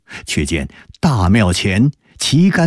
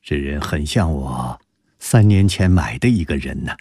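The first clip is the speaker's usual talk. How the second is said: 先低低轻叹一声，再压低些说; 像回想往事般沉吟开口; 4 semitones lower than usual. Acted. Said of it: "沉吟良久， 方道". (沉吟着低声说)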